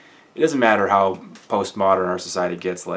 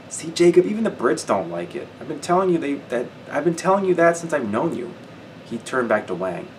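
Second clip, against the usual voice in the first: lifted, brighter reading voice; story narration; 2 semitones higher than usual. A narrator's reading. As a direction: carry the listener into the scene. Reads the novel aloud.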